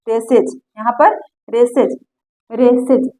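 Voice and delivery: रेसेज with a clear iz syllable at the end; रेसेज said as race plus iz; demo iz ending. Shown as a demonstration. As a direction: stretch the final iz of रेसेज. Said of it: "इज आ रहा ना".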